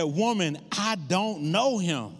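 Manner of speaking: slow, drawn-out retold denial; emphatic denial. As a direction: deny it firmly, stretching the words out. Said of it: "Peter denied even knowing Jesus".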